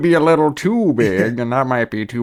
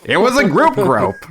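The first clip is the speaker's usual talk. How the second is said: laughing; 7 semitones higher than usual. Real, not acted. Laughing while quoting movie line.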